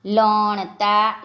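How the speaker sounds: લણતા very slowly, syllable by syllable; slow word demonstration. Shown as a demonstration. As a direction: stretch out લણતા for learners. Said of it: "આપણે શબ્દો જોઈએ".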